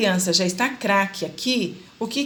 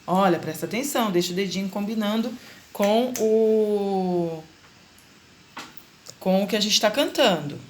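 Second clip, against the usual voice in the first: teacher prompt. Shown as a demonstration. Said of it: "o que que eu falo pra ela?".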